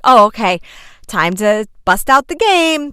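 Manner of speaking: upbeat. Retold or imitated. Cheerful mom starts game.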